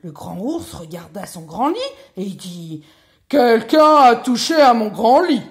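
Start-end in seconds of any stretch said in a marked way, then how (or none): 3.3-5.4 very loud, higher booming cry; big bear's shout. A narrator's reading. Big bear finds his bed touched, booming shout. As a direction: bellow it as an outraged big bear.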